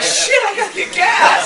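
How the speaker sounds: high, loud comic yell; sudden realization. Retold or imitated. Driver on the freeway remembering the gas, in comic alarm. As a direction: blurt it out in hammed-up alarm, half laughing. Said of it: "I'm like".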